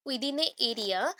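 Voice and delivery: within a area stretched very slowly, words spaced apart; slow, spaced-out repeat. Shown as a demonstration. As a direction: draw out within a area word by word.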